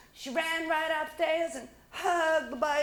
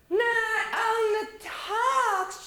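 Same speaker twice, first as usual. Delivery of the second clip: high, loud and slow call; 10 semitones higher, 5 dB louder, much slower than usual. Acted. Stella Rondo calling down the stairs, high and slow. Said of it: "called Stella Rhonda".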